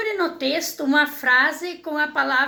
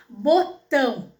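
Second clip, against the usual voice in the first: "botão" split slowly, "tão" held as the stressed syllable; stress on second syllable; slower than usual. Shown as a demonstration. Teacher showing pupils the strongest syllable in "botão", stressed and slow. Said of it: "Aonde que tá a sílaba mais forte".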